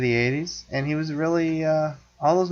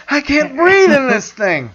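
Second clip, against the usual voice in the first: high, slow, strained mask voice; Dark Helmet impression; 14 semitones higher, 8 dB louder, slower than usual. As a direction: whine it from inside a helmet.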